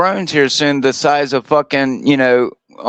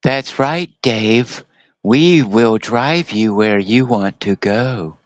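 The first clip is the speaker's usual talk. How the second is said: robot voice; 3 semitones lower, much slower than usual. Retold or imitated. Voicing talking car KITT.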